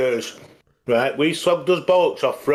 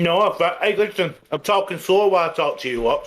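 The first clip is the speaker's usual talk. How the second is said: mouth full; 2 semitones higher than usual. Real, not acted. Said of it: "You got a mouthful of fucking spunk or something".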